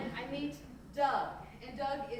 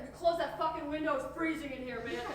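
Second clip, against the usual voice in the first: mildly heated, louder snap back; acted irritation, voice raised a little; irritated complaint; 4 semitones higher, 5 dB louder than usual. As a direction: complain loudly, annoyed at the cold. Acted stoned quarrel over window.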